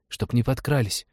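put-on high-pitched child's request; pleading little boy. A narrator's reading. Boy asks pilot to watch instruments, earnest high voice. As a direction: coax like a small boy.

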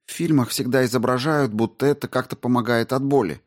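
high, brisk woman astrobiologist; Рао объясняет. Acted. Narrator voices Rao explaining. (высоким голосом, деловито и встревоженно)

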